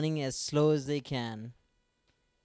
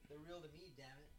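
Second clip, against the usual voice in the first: mock catchphrase; 22 dB quieter, faster than usual. Wrestling catchphrase quote, whispered.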